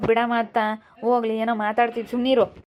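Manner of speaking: calm your mother down, raising your voice; pleading son. Acted. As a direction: son loudly pleading with his angry mother. Son tells mother to drop it.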